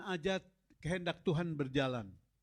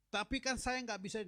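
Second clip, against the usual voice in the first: pleading objection; 7 semitones higher than usual. Acted. Moses pleading excuse to God.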